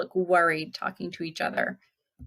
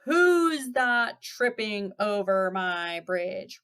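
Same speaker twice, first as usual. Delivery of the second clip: slow, drawn-out troll challenge; lightly roared, stretching out the words; mild troll roar; slower than usual. Acted. Troll challenging the goat on his bridge, mildly roaring. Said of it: "roared the troll".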